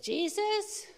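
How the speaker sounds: calling the name out in joy; exclaiming Jesus. Retold or imitated. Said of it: "we're saying".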